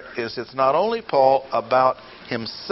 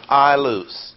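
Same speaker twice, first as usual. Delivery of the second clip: I stressed, loose falling after it; emphatic I, then drop on loose; 2 semitones higher than usual. Shown as a demonstration. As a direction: lean on the word I. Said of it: "that's underscored".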